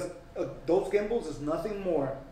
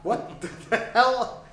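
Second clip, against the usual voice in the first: surprised; 6 semitones higher, slower than usual. Real, not acted. Reacting to surprising news.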